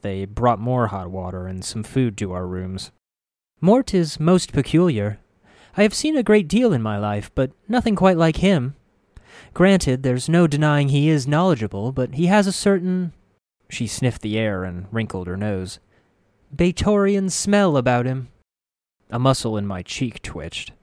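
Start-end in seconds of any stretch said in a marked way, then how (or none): 3.6-13.1 high, prim healer voice; elderly woman voice. A narrator's reading. Grace's voice. 16.5-18.3 high, prim, sniffy remark; elderly woman voice. A narrator's reading. Grace's voice, first take.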